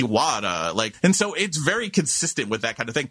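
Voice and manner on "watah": WATER said "wah-duh" with no r; r-less New York water. Shown as a demonstration. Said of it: "there would be no R".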